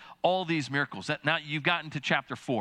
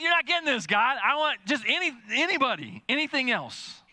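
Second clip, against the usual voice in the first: much higher, louder exasperated plea; frustrated pleading; 9 semitones higher, 4 dB louder than usual. Retold or imitated. Moses pleading with God to send anyone else, frustrated. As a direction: cry out that God just isn't getting it. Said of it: "You can sense his frustration".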